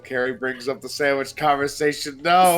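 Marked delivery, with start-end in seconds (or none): 2.2-2.6 loud, raised "No"; exasperated protest. Real, not acted. Player protests the sandwich conversation coming back, exasperated. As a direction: cry out in protest.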